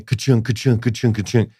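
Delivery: evenly repeated wooden ka-chung noises; rhythmic mouth-made clatter; imitated bleacher clunks. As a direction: imitate clanking gym bleachers. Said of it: "they would go like".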